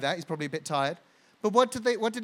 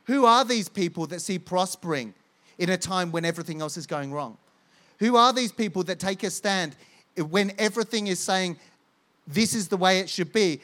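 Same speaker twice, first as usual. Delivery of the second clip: amazed world asking; 4 dB louder than usual. Pretend. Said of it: "the world has to look at us and go".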